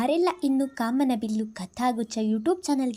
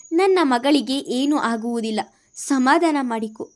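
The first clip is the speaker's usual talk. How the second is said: louder, mildly tearful consoling; crying while consoling; 5 dB louder than usual. Acted. Mother-in-law consoling a scared son, mildly tearful. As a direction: comfort him though you are close to tears yourself. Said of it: "ಅಳುತ್ತಲೇ ಸಮಾಧಾನ ಮಾಡಿದರು".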